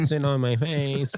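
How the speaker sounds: slow, drawn-out imitation; slow quote imitation. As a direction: drag the quote slowly. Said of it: "He was like this".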